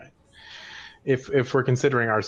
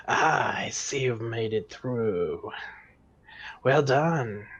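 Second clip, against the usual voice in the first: spidery whisper voice; 2 semitones higher, slower than usual. Acted. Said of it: "generic spidery whisper voice".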